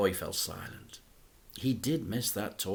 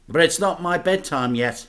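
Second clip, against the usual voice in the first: protesting; 6 semitones higher, 8 dB louder than usual. A narrator's reading. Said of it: "he protested".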